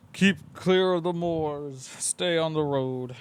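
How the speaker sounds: slow, doom-laden villager warning; ominous pub-local warning, slowed down. Retold or imitated. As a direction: warn them slowly like an old omen. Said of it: "they're just like".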